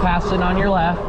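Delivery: passing cyclist calling out. Real, not acted. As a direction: call it out as you pass. Passing another rider on hill.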